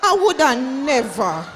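put-on crying protest of innocence; mock crying plea. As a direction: plead tearfully to the judge, hammed up. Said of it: "me cry to the judge and say".

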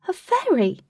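high, loud cry of discovery; excited shout. Acted. Katie spotting the tiny winged lady, shouting. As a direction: call it out loud, wide-eyed. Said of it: "Katie shouted".

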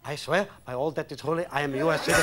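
comic mash-up of Chinese and Jewish accents. Shown as a demonstration. Guest takes the host's accent challenge, Chinese Jewish accent. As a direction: blend Chinese and Jewish accents, solemn oath. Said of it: "A Chinese Jew".

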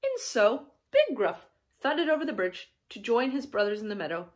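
lively storybook reading, falling at the end; children's story narration. A narrator's reading. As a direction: read it to a small child.

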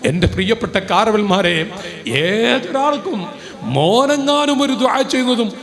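loud, rousing sermon climax; preacher moving the congregation, loud and rousing; impassioned preaching. Acted. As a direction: preach it to the crowd full force. Preaching at full force.

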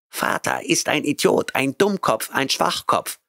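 high cat voice, timid and anxious; frightened cat. A narrator's reading. Cat Oliver fearfully answering angry Grant, high and timid. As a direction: blurt it out scared. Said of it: "sagte er ängstlich".

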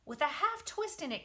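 high, loud call; loud high command; crying out. Acted. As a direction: spider crying to the pig. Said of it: "cried Charlotte".

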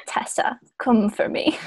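soft unvoiced whisper; whispered line. Reading the hero's line to Tessa, whispered. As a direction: breathe it like a lover's secret.

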